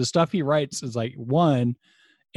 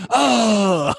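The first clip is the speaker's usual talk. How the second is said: surprised; 11 semitones higher, 6 dB louder than usual. Retold or imitated. Reacting to lids mix-up.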